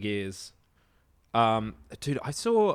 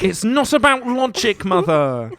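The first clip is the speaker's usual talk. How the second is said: put-on British accent; 5 semitones higher than usual. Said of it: "you sound different".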